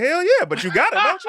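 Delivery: high, loud mock brag; hammed-up yelled comeback; loud retort. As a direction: throw it back at her, half-laughing. Retold retort to wife.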